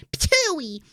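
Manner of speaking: spitting noise with mouth; ptooey spit sound; mock spit. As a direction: pretend to spit. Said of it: "I spit on her".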